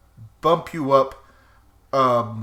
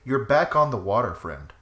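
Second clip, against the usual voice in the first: game master narration; 2 semitones lower than usual. Acted. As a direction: draw them into the mood. GM sets the scene.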